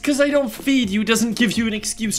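scolding voice. Pretend. Scolding the cat in character.

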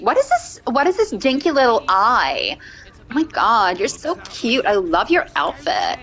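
put-on Mean Girls voice; American valley girl. Streamer cooing over a character's outfit, valley girl accent. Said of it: "from watching too much Mean Girls".

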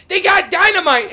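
imitated yell. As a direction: quote the teammate's warning as a yell. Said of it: "He just yelled".

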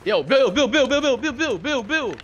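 loud high repeated call with a laugh; frantic giggling shout of a name. Real, not acted. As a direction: yell for your teammate to notice you. Calling teammate Bill repeatedly.

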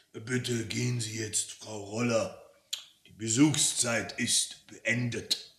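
lightly voiced smoky authority figure; measured dismissal in a deep, smoky tone; hint of a deep, smoky boss. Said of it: "eine tiefe, rauchige Stimme".

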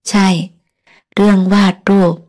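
a mildly curt, bitter retort after a short laugh. Acted. Frank confronts the woman who fooled him, mildly curt and scornful. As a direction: toss the questions back with a touch of scorn. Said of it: "เขาถามเสียงห้วนจัด".

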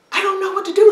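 put-on frantic young woman; panicked cry. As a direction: cry out lost. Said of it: "And she said".

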